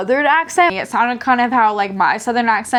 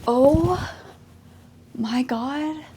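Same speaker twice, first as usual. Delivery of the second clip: startled oh my god; 4 semitones higher, 5 dB quieter, much slower than usual. Real, not acted. Cat jumps onto the TV.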